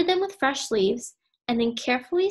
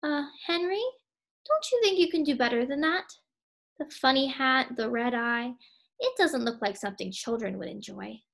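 hesitant doubt; 2 semitones higher than usual. Acted. Henrietta gently doubts Henry's odd painting, hesitant. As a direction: tiptoe around his feelings. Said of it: "didn't know what to say".

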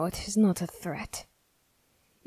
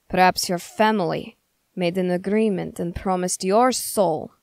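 louder, emphatic charge; forceful accusation; 5 dB louder than usual. Acted. Accuser blames suspected witch's family for a demon bargain, emphatic. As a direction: drive the accusation home.

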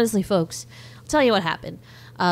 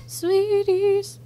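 high, drawn-out announcer call; hammed-up jingle voice; sing-song show call; 13 semitones higher than usual. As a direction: announce the title playfully. Show title sung out.

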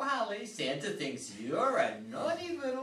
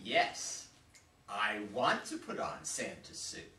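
low seductive voice; 11 semitones lower than usual. Acted. Sparky answers the seduction.

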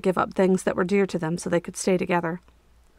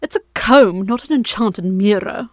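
snooty reflection; 5 dB louder than usual. Acted. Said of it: "the reflection said".

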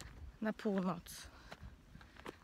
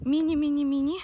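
excited; 5 semitones higher, 8 dB louder, faster than usual. Real, not acted. Tiny apples, emphatic repetition.

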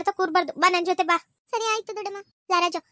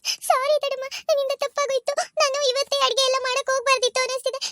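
tearful apology; 5 semitones higher than usual. Acted. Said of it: "ಯಾಕಮ್ಮ ಗಂಗಾ ಅಳ್ತಿದೀಯಾ?".

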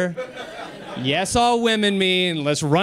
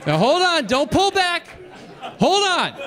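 pleading; 10 semitones higher than usual. Real, not acted. Pleading with the audience.

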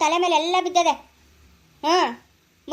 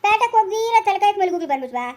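higher-pitched, accusing questions; quarrelsome retort; 3 semitones higher than usual. Acted. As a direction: challenge the denial, voice raised. Quarrel over where the flowers came from. (ಜಗಳದ ಏರಿದ ದನಿ)

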